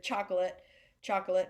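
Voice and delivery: "chocolate" quickly as choc-lit; shortened pronunciation. Shown as a demonstration. Teacher testing how people shorten it, "chocolate" as choc-lit. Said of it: "they kinda shorten it".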